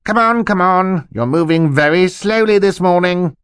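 bustling jolly uncle. Acted. Uncle bursts in to hurry the children, bustling. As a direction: hurry them along as an excitable uncle.

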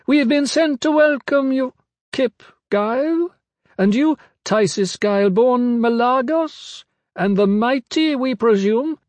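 very high, measured character voice; high-pitched pygmy woman. A narrator's reading. Pygmy woman welcoming Kip and the mighty, high-pitched. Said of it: "her voice high-pitched".

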